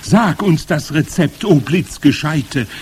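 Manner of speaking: high, loud crowd clamour; impatient calling. A narrator's reading. Eager witches begging their leader for the recipe, impatient calling. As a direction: call out eagerly, high and pressing. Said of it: "rief die Menge ungeduldig".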